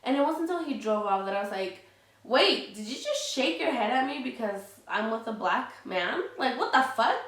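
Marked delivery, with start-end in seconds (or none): 2.2-7.2 a woman reliving her anger at a stranger who shook his head; retold indignant anger. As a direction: call him out in shocked anger. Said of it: "it just made me so angry".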